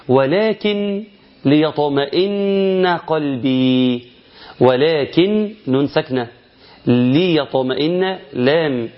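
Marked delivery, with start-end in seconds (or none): 0.1-4.1 slow recitation with noon merged into lam; Quranic idgham. Shown as a demonstration. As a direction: draw out "ولكن ليطمئن" with the noon swallowed into the lam. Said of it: "هقول لك إيه؟". (تلاوة بطيئة مع إدغام النون في اللام)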